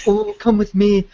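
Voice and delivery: mock Welsh romantic hero in a Welsh accent; a hint of a Welsh accent, teasing. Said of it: "Yeah, I went Scottish".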